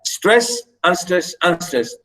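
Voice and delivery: "stress" firm, each "unstress" lighter and falling away; strong first beat, two weaker ones; dactylic beat. Shown as a demonstration. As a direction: chant stress, unstress, unstress as a metre pattern. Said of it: "a stressed syllable followed by two unstressed".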